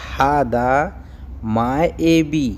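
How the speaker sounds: हादा माएबी said slowly, one word at a time with a pause between; slow teaching repeat of हादा माएबी. Shown as a demonstration. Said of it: "teacher repeats phrase word by word".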